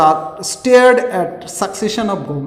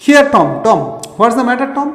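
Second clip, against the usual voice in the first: louder, fast worried brother asking; worried call; 4 semitones higher, 5 dB louder, much faster than usual. Retold or imitated. Brother calls to groaning Tom, louder and worried. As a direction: call out to Tom in alarm, quickly. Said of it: "Again Sid asked".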